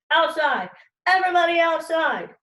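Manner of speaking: loud commanding call; shouted order. Retold or imitated. Teacher ordering the class outside. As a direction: order them out firmly. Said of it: "Mister Corrupt ordered".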